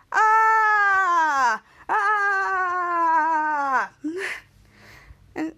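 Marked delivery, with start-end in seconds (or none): 0.1-3.9 drawn-out "aah", sliding down; faked long cry. Faking it after the cake, drawn-out mock cry. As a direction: put on a fake, sustained wail. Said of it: "and he faked, he was like".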